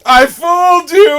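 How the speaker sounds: high, loud triumphant shout; mock gloating yell. Moose jumps up to the star, gloating yell. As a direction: crow it at full volume. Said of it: "he yells".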